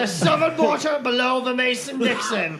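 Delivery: hint of a British officer; lightly put-on British accent. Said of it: "nobody in the Civil War was British".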